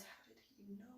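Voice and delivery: soft, hushed, panicked thought; alarmed inner thought. Retold or imitated. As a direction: think it in a hush. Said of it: "my first thought was".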